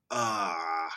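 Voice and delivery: put-on grumpy old prospector in a Boston accent. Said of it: "Boston's hard".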